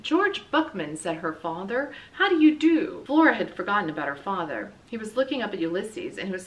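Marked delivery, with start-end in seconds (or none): 0.0-1.0 loud greeting. A narrator's reading. Father greets loudly again. 2.1-3.0 loud greeting. A narrator's reading. Father greets loudly again.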